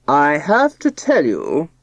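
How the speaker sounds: slow, solemn, self-important father; solemn pompous voice. Acted. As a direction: announce it like a pompous patriarch. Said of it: "in a solemn, pompous voice".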